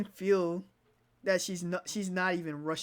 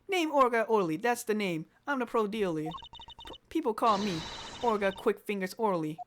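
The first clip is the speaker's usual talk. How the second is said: New Yorker accent. Shown as a demonstration. The witness naming herself, in a brash New York accent. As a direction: sell it like a New York hustler. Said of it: "I feel like she would have a New Yorker accent".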